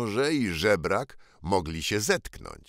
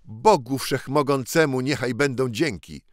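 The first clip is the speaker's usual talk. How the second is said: excited thanks; 5 semitones higher, 4 dB louder than usual. Acted. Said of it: "zawołał ... w najwyższym podnieceniu".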